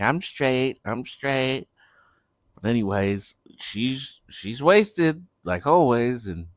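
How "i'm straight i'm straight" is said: slurred tipsy insistence; drunk slurring. Retold or imitated. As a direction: say it like a drunk who claims she's fine. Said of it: "she'll be wasted and she'll be like".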